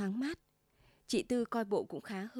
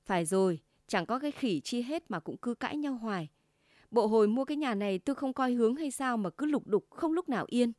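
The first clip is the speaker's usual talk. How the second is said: sulky anger; 2 semitones higher than usual. Acted. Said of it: "Anh Tư hậm hực".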